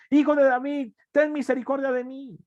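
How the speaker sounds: high, insistent cry for mercy; acted beggar's desperate shout. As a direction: call out even harder, pitch soaring. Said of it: "él clamaba mucho más".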